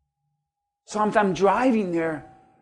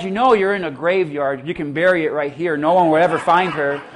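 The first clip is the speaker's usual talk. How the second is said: devil's voice; 4 semitones lower than usual. Retold or imitated. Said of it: "But the devil said".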